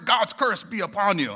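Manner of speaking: mock curse. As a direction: pronounce it at someone half-jokingly. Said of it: "when's the last time that you said that to someone".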